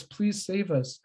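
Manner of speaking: the same cry for help, trailing off. Retold or imitated. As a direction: let the repeat drop away. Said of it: "they call out".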